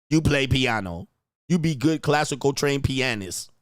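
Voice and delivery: mock Asian accent. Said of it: "Where's my Asian accent?".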